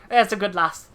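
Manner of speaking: lightly voiced salty old sea dog; gruff pirate sailor. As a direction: read it like a dockside pirate. Pirate NPC dialogue.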